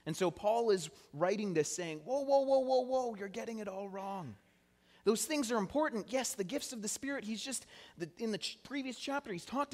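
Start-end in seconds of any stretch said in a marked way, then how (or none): 2.0-4.4 high, urgent string of whoas, then easing off; acted-out high-pitched objection; alarmed interjection. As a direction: cut in to halt someone's mistake. Acting out Paul halting the church.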